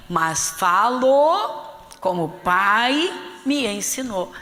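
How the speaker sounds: loud, drawn-out FALO and PAI, each swelling upward; emphatic verse reading. Acted. Pastor highlights the key verse, loud and drawn out. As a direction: stretch "falo" and "Pai" loudly, then ease off on "ensinou".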